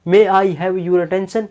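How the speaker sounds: slow, drawn-out announcement; announcer voice. Shown as a demonstration. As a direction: call it out like a station announcer. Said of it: "तो ऐसे बोलती है ना". (Station announcement की तरह धीमे)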